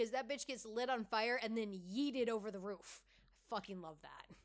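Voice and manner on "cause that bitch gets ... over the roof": normal talking voice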